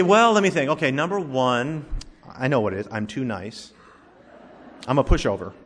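a hint of a falsely humble husband listing his faults; smug husband. Husband dodging his wife's complaints, mock humble and smug. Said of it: "And he'd say".

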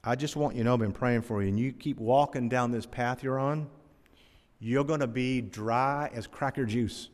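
lightly imitated North Carolina old man, slowing on the last phrase; North Carolina accent. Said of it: "with that North Carolina accent, he said".

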